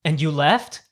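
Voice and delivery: mock disbelief, leaping high at the end; incredulous friends. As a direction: imitate friends who can't believe it.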